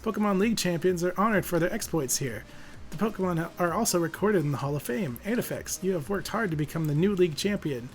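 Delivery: ceremonial professor. Acted. Professor in Hall of Fame.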